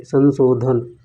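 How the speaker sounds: संशोधन said slowly, with a breathy dh; slow self-correction. Shown as a demonstration. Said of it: "sorry".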